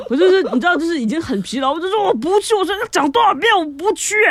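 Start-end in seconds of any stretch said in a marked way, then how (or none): 2.1-4.1 loud, high refusal; retold yell. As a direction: shout it as if fed up. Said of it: "然后我就大喊". (不耐烦地大喊)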